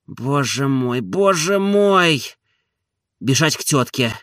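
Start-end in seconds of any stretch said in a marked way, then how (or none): 1.0-2.2 higher and drawn out slowly, a despairing sigh; anguished. Acted. Oblomov despairing over his marriage, drawn out. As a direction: stretch "боже мой" out high in despair.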